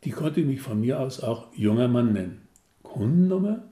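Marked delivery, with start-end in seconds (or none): 2.8-3.6 high, loud clipped question; curt clerk. Acted. Receptionist curtly asking the caller's customer number. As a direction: fire the question off briskly. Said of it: "receptionist asks again".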